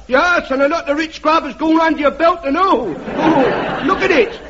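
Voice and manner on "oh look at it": mocking laugh. Heckler mocking Bruff's belly.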